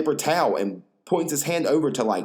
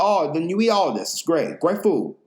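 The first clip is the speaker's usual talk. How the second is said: higher mock owner voice; hint of the eager owner; imitating the owner; 5 semitones higher than usual. Owner recommending food.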